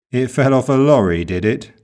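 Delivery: "did it?" rising, doubting the story; suspicious rising tag. Shown as a demonstration. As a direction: let disbelief lift "did it?" up. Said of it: "sarcasm or suspicion, as in the second example".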